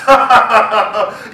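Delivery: loud booming laugh; lion laugh. Acted. Lion laughs at the tiny mouse, booming laugh. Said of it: "The lion just laughed".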